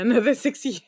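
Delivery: breaking into laughter, slowing down; laughing. Real, not acted. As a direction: laugh it off at your own expense. Laughing about finishing PhD late.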